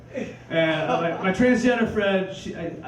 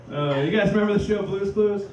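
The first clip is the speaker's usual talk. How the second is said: shouted again. Shown as a demonstration. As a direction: call it out to wake the room up. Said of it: "All right".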